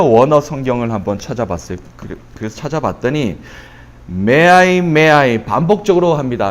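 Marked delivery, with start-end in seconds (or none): 4.1-5.4 "may I" stretched and pushed louder; emphatic repetition. Shown as a demonstration. Preacher stressing a repeated Hebrew cry, "may I" said emphatically. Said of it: "강조하는 거예요".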